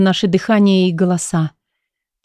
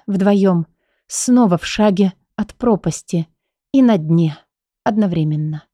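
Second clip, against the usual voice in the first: usual speaking voice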